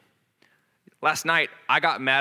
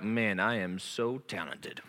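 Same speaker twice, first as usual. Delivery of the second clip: slow, softer smug self-praise; smug inner pride voice; 4 semitones lower, 6 dB quieter than usual. Retold or imitated. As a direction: savour it like Will Ferrell. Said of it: "that's the voice, that's pride voice".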